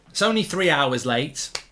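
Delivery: normal talking voice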